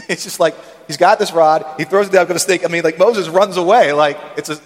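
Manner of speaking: real amusement, laughing along; amused laughing. Real, not acted. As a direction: chuckle through the snake story. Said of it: "That makes me laugh".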